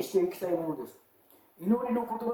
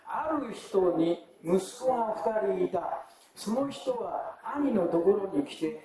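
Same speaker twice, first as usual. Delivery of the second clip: scripture reading. Acted. Pastor reads Matthew's parable to the church in a measured reading voice. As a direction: read the parable out clearly for the congregation.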